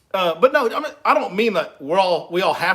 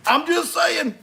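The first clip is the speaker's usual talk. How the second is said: 1 teasing singsong; 11 semitones higher, slower than usual. Real, not acted.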